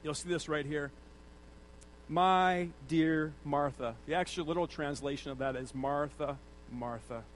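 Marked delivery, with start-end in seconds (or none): 2.1-4.0 gentle reply. Retold or imitated. Jesus' gentle reply voiced. 5.7-7.2 lower, softer calming voice; gently calm a frazzled friend; soothing Jesus. Retold or imitated.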